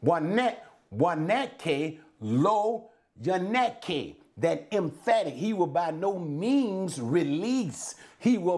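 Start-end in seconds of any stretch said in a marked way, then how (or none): 0.0-4.2 slow, careful Hebrew read-out; slow Hebrew recitation; Hebrew phrase. Shown as a demonstration. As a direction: sound out the Hebrew slowly again. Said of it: "the emphatic manner to the which it is written".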